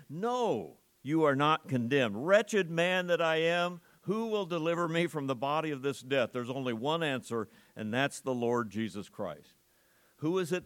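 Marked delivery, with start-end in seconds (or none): 0.1-6.3 firm proclamation. Retold or imitated. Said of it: "stop and say".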